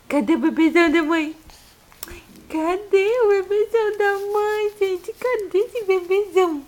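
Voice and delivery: loud, high, fast playful call. Real, not acted. Mother playfully calling for baby.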